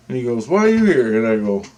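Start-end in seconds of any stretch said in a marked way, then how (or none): 0.5-1.2 buddy's voice. Retold or imitated. Buddy voiced in retold scene.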